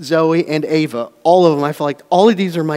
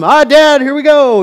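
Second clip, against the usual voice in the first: put-on kids groaning; 10 semitones higher, 11 dB louder than usual. Kids groaning at dad's warning.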